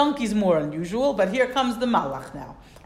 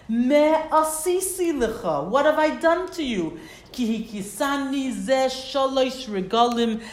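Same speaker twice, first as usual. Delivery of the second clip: higher, louder plaintive donkey; donkey pleading; 4 semitones higher, 5 dB louder than usual. Acted. Teacher voicing the donkey's plea to Bilam, raised and plaintive. Donkey protests being hit.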